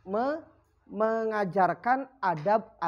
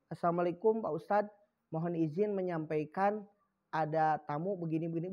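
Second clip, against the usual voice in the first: low, softened deferential delivery; respectful message; 5 semitones lower, 4 dB quieter than usual. Shown as a demonstration. Pupil informs the ustadz of a guest, respectful and soft. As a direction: pass on word courteously, voice kept down. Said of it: "ngomongnya begitu".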